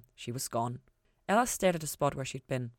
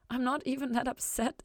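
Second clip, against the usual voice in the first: insisting; 8 semitones higher than usual. A narrator's reading. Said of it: "Ella insisted".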